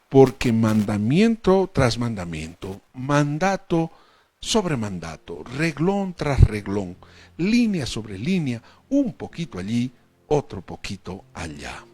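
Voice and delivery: full-force preacher reading the prophet; preaching scripture. Acted. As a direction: proclaim each verse to the congregation. Loud slow scripture reading.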